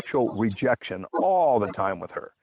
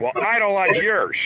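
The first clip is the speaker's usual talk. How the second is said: snippy comeback; 8 semitones higher than usual. Retold or imitated. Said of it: "they would be like".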